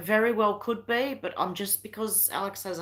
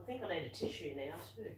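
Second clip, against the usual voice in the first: worn out after coughing; 16 dB quieter than usual. Real, not acted. Recovering from coughing fit.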